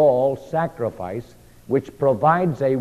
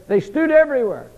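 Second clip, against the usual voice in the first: emphatic climax; 9 semitones higher, 4 dB louder than usual. Acted. Climax of stood there list.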